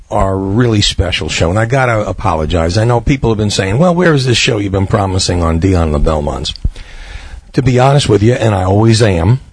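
hoarse from a cold, under the weather; raspy voice. Real, not acted. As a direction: talk through a sore, raspy throat. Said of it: "excuse my voice, I'm a little under the weather".

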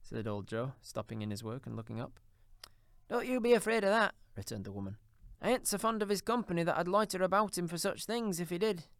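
put-on high, coarse old charwoman, brazen; a bold thieving charwoman, defiant. A narrator's reading. Charwoman boasts of her spoils.

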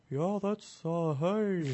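high, odd mock German accent. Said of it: "This is my German accent".

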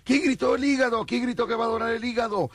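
high calling-out host; hyped fairground barker. Retold or imitated. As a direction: shout to the crowd, high. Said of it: "entre toda la gente decía".

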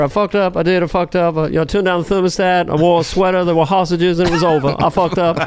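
lightly voiced president confessing; mild comic impersonation of a rueful president; Jimmy Carter. President admitting his failures, light Jimmy Carter impression. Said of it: "I've been doing Jimmy Carter".

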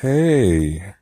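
normal talking voice

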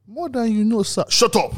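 high squeaky snapping shout; falsetto, snap it out; high boy voice. Acted. Boy voice then snaps.

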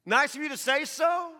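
breezy, offhand thanks; mock polite reply. Imagined reply to someone saying I love you, lightly mocking. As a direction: brush it off lightly. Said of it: "you say".

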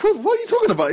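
very high, baffled comeback; retold disbelief. Answering the girl's odd question, retold disbelief. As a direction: act out being totally thrown, pitch shooting up.

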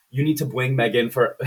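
"bring" said with a W for the R, as "bwing"; mock speech impediment. Boss instructing Gemma, "bring" mimicked as "bwing". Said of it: "'cause he has a speech impediment".

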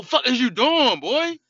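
put-on high, sharp fatherly yell at the boy; scolding yell at son. Father yelling at son cursing on his Fortnite stream, sharply. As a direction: bark at the kid through the wall.

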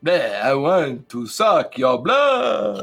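slow, drawn-out Transylvanian vampire; mock Dracula-style accent, long vowels. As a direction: stretch it out in a hammy vampire accent. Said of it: "I do this accent".

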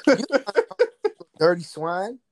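slow drawn-out playful insult; mock insult. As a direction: drag it out slowly like a villain.

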